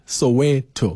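"Soweto" said so-WEH-toh; correct Soweto pronunciation. Shown as a demonstration. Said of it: "my understanding is it's".

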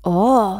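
sudden croaky "oh"; old woman's croaked cry; hoarse cry. A narrator's reading. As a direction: let out a hoarse exclamation. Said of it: "קראה פתאום בקול צרוד".

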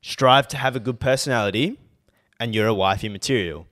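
indignant rant, pushed harder at first; episode rant. Real, not acted. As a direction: scold them in an exasperated tirade. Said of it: "This is my rant for the episode".

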